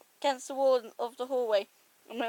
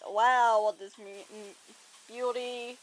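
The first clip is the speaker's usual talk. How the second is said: rough try at an American accent; low, American-ish drawn voice; 4 semitones lower, slower than usual. Shown as a demonstration. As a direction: put on a loosely American accent. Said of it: "I've also done American-ish".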